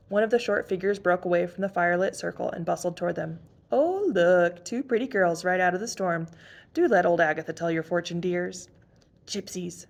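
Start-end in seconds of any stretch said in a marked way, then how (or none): 3.7-8.7 lightly voiced old fortune-teller, coaxing; a hint of a sly old woman wheedling. Old Agatha greeting the two girls, lightly coaxing. 9.3-9.9 hushed, eager aside; excited whisper. Acted. Emily whispering to her sister, excited and hushed. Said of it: "whispered Emily excitedly".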